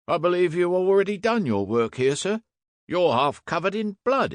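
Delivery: high-pitched, pointed accusation; accusing constable. A narrator's reading. Constable points out the blood on the inspector, accusing. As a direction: confront the suspect as a young constable.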